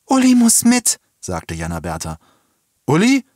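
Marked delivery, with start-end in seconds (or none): 0.1-1.0 high, loud demand; desperate insistence. A narrator's reading. Girl insists on taking her brother. 2.9-3.2 high, loud query of the name; startled question. A narrator's reading. Woman questions the girl's demand.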